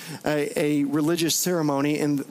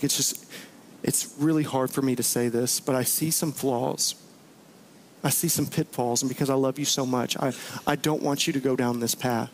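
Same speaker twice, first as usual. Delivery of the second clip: tender confession; 3 semitones lower than usual. Retold or imitated. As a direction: lean in, gentle and heartfelt, as if it hurts to say it. Friend's heartfelt confrontation voiced.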